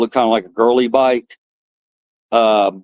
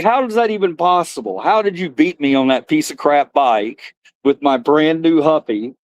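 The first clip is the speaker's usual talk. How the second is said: mock angry disbelief; 3 semitones higher than usual. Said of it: "I got so angry".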